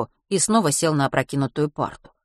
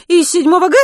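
put-on strict vice-principal catching boys outside; stern teacher; 13 semitones higher, 10 dB louder than usual. A narrator's reading. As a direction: interrogate like a strict head teacher.

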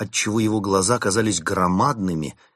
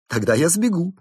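nervous chimp monk; 11 semitones higher, 5 dB louder than usual. Acted. Chimp monk threatens to flee.

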